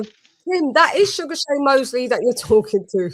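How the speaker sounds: laughing through the correction; can barely say it for laughing. Retold or imitated. Host laughing as he tells Tim. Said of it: "I go".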